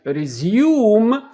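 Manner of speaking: resume said the British way, loud; British pronunciation. Shown as a demonstration. Teacher showing learners how Britons say resume, exaggerated British accent. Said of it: "دي بريتش".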